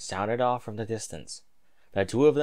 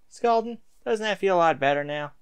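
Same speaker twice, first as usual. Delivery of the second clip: lightly voiced mare; 8 semitones higher, 4 dB louder than usual. A narrator's reading. Voicing the mare offering him juice, lightly voiced. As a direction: speak lightly as the wife. Stallion answers his mare.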